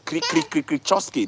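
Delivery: imitation of an unpronounceable Slavic-style surname; mock Eastern European name. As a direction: rattle off a crunchy consonant cluster name. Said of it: "funny Eastern European name".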